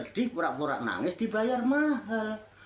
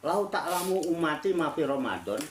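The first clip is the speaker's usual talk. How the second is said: measured Arabic recitation, slightly lower; recited hadith; 4 semitones lower than usual. Shown as a demonstration. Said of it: "katanya Rasulullah bersabda". (lantunan hadis dalam bahasa Arab)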